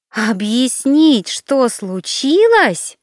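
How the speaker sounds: high, slow, indignant echo of his words; flaring up. Acted. Alina flares up at him in the cafe, indignant. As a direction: throw his question back at him, outraged. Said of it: "вскинулась Алина".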